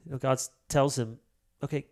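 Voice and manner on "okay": God's brisk command. Retold or imitated. God's reply in retold story.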